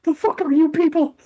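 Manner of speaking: very high, squeaky, slow freakout; the guard losing it in terror; panicked guard. Acted. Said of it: "He's like".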